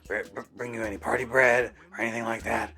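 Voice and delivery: lightly voiced wheezy chain smoker, out of breath; a hint of a breathless smoker calling the store; chain smoker Jeff. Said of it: "Jeff kinda sounded like this".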